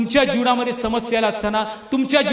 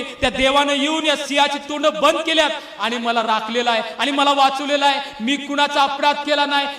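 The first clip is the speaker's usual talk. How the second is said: lightly voiced, raised-pitch earnest reply; Daniel; 3 semitones higher than usual. Prophet answering the king from the den, lightly acted. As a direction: answer the king with mild, respectful insistence. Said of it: "मग Daniel इथं उत्तर देतोय".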